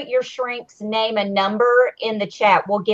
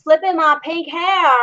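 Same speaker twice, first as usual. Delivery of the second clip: mimicking her accent, pitched up; higher-pitched mock accent of a housemate; Rockstar; 4 semitones higher than usual. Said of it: "it's the accent, y'all".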